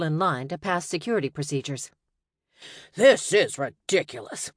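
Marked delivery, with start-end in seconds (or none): 2.9-4.5 put-on indignant old wizard, a touch louder; offended wizard protesting. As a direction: bristle at the insult. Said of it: "a gray-haired wizard said indignantly".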